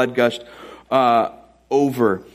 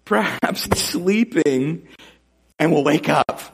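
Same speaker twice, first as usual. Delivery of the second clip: drawn-out, higher mock musing; Elijah mocking; 4 semitones higher, slower than usual. Prophet making fun of rivals' silent god, drawn-out mocking. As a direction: stretch the words out teasingly. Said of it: "he's just making fun of these Baal prophets".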